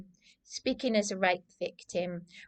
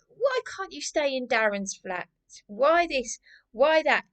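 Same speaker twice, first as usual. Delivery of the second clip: higher-pitched mock questioning; mimicked nagging questions; 5 semitones higher than usual. Mimicking everyone asking about the flat, nagging and high. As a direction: imitate people pestering you with questions.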